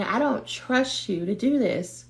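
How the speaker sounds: high, small voice of mistrust; distrustful inner voice. Acted. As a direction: refuse in a high little voice, unhurried. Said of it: "That voice is saying".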